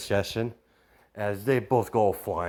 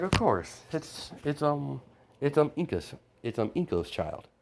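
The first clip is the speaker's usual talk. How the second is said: higher, lightly voiced mother; mother's voice; 7 semitones higher than usual. Mother explaining the boy is Inko's child, higher mom voice. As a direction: pitch up into a gentle mom voice.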